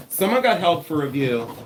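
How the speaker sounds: real, slightly yelled announcement. Real, not acted. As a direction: raise your voice without a full shout. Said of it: "Why am I yelling?".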